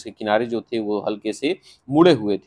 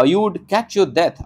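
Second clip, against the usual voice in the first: mother's warning; 7 semitones higher, much slower than usual. Acted. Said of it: "लेकिन उसकी माँ कहती है".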